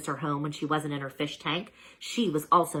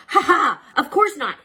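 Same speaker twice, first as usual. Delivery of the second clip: laughing; 12 semitones higher, 10 dB louder than usual. A narrator's reading. Laughing denial.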